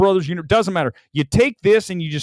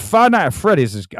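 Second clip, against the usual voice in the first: a hint of a mocking, raised voice; 3 semitones higher, 4 dB louder than usual. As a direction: lightly parody her praise, a bit louder. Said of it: "I don't even know what this voice".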